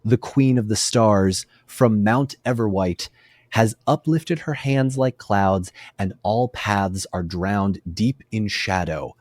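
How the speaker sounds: slow, soft, solemn verse reading; poem recitation. A narrator's reading. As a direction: recite the lament gently, letting each line settle. Recites translated lament.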